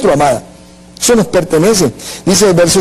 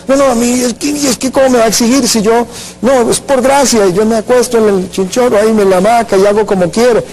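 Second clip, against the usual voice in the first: a higher, whiny put-on voice for the lazy believer; mock whiny excuse; 5 semitones higher than usual. Preacher mocks a believer lounging in the hammock, whining. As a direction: sneer at the excuse by acting it out.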